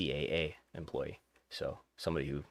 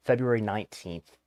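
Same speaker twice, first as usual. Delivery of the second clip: normal talking voice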